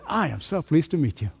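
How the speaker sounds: soft, sincere greeting; genuinely glad. Shown as a demonstration. Preacher greeting a newcomer, soft and sincere. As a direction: greet them like you mean it. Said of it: "I'm genuinely glad to be in their presence".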